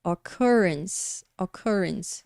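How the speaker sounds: occurrence slowly, weight on second syllable; pronúncia de occurrence. Shown as a demonstration. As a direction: model occurrence with stressed CUR, final s. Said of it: "como que a gente fala essa palavra". (occurrence com a segunda sílaba forte)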